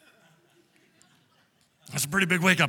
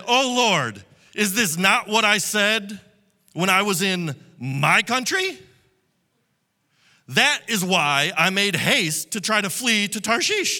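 louder, slow, exasperated cry to the Lord; angry prayer; 4 dB louder than usual. Acted. Preacher reading angry Jonah's complaint to God, loud and slow. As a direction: read it like Jonah venting at God.

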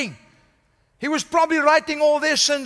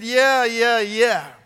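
a sneering dismissal of a dying thief; dismissive scoff; 2 semitones lower than usual. Retold or imitated. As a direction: wave him off with scorn. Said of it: "Jesus could have said".

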